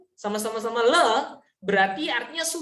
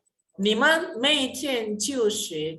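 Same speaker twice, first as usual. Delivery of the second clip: slow demo reading; much slower than usual. Shown as a demonstration. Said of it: "Berbeda hanya pada penekanan".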